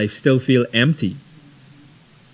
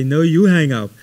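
lightly voiced teasing girlfriend, a bit higher; playful sweetheart; 4 semitones higher, 3 dB louder than usual.

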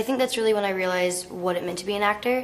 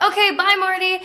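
much higher, chirpy fake British farewell; sweet British goodbye; 12 semitones higher, 5 dB louder than usual. Leaving Scorsese's office, chirpy British goodbye. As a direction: leave sweetly in put-on British. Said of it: "I was like".

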